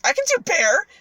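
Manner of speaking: high, loud, cocky retort; lightly acted show-off; boastful ogre. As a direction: brag as if the challenge is nothing. Retold ogre boasts of powers.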